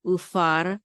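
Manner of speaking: Ufar closed off firmly on its r; stop after r. Shown as a demonstration. Teacher showing how the sheva stops the syllable, Ufar closed on r. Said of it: "The sheva makes us stop".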